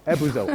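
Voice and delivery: "ebuzo" with the oo sounded; audible middle U. Shown as a demonstration. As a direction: say "ebuzo" as three syllables, eh-boo-zo. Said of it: "They reported hearing the U".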